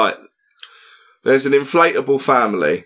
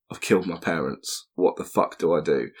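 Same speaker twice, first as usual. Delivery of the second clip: put-on panicked kid; 5 semitones lower, 7 dB quieter than usual. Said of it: "Timmy's like".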